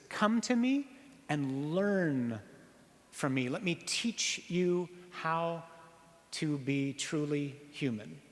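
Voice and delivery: slow, gentle reading of Jesus' words; Jesus quoted. Retold or imitated. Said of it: "Jesus says".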